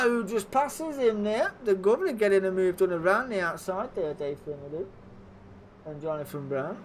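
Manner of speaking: lively live race play-by-play; motorsport commentator. Acted. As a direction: call the race as it happens.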